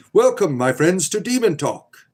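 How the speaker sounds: talk show host. Pretend. Streamer opening his pretend Demon Talk show, hammed-up host voice. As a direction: welcome the listeners like a cheesy late-night radio host.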